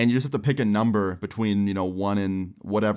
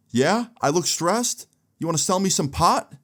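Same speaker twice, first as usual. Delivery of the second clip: retold irritation; 8 semitones higher than usual. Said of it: "he's looking kinda mad now".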